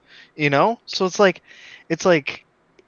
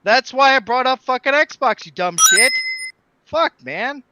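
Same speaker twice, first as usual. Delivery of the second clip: raised, heated arguing; 6 semitones higher than usual. Real, not acted. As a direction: argue it up high and hot. Heated argument with friend.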